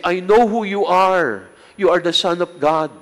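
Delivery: a touch of a menacing demon; devils' voice. Retold or imitated. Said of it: "the devils would always say".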